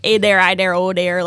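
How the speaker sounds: put-on light Wisconsin accent, playful; hint of an Upper Midwest Wisconsin accent. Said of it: "I'll do the accent".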